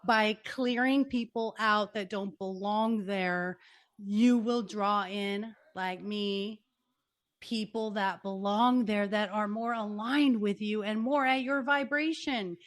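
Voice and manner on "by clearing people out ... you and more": slow, deliberate advice; motherly coaching. Real, not acted. Coaching the guest like his mama, slowly and deliberately. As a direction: lay it out slowly like a caring coach. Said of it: "I'm gonna be your mama and your coach".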